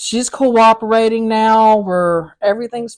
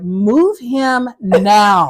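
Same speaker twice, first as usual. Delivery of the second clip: firm order; much slower than usual. Retold or imitated. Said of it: "I looked at one of the C Os and I was like".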